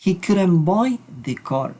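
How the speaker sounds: slow, careful English example; slow model sentence. Shown as a demonstration. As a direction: read it slowly for learners. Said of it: "Vamos a decir".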